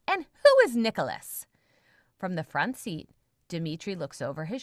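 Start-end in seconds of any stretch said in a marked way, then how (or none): 0.1-1.4 loud confused question. Acted. Confused captive calls out.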